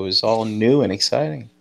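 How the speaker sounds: dry mock enthusiasm; sarcastic. Real, not acted. Panelist on a retailer's new website, sarcastic. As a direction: say it with understated sarcasm. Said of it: "I can hear the sarcasm in your voice".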